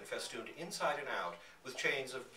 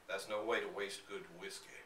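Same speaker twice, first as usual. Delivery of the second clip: a touch of gruff, softer voice; lightly voiced stern giant; gloomy giant scolding two old ladies; frowning giant; 3 semitones lower, 4 dB quieter than usual. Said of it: "This sobers him. He frowns".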